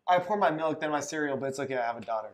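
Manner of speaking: lightly mocked friend, low and hushed; mock impression of friend. Friend teasing his buddy's excuses, quiet mock impression. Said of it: "he's like".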